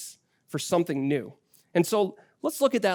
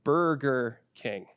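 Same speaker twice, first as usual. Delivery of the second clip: patient teaching; 2 semitones lower than usual. Retold or imitated. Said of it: "I had to teach my child".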